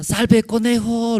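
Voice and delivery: high, drawn-out mock cry of a fleeing rabbit; grito imitado. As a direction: call out high and stretched, imitating panicked rabbits. (grito agudo y alargado de conejo, imitado)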